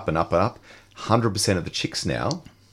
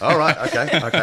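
laughing; 6 semitones higher, 4 dB louder than usual. Real, not acted. Laughing at the helium joke.

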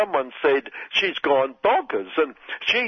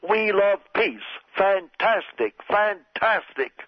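lightly voiced Trump, higher, slow drawn-out fantastic; a hint of Trump, pleased with himself; mock Trump; 6 semitones higher, slower than usual. Trump impression.

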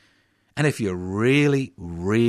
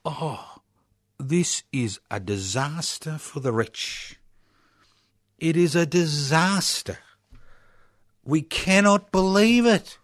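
whiny mocking pundit voice, rising higher; mock media lament; 4 semitones higher than usual. Host mocking the media's lament over the bank tax in a whiny voice. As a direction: parody a hand-wringing newsreader. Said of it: "government-gelded A B C telling us".

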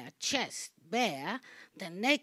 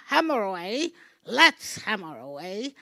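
loud rallying cry; 8 dB louder than usual. Acted. Urging himself to strike.

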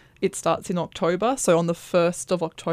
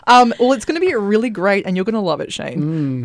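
laughing reassurance; 4 semitones higher, 9 dB louder than usual. Real, not acted. Guest laughs off host's alarm.

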